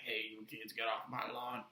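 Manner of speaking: lightly voiced grumpy old man. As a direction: mildly scold kids as an old grouch. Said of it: "grumpy old man like this".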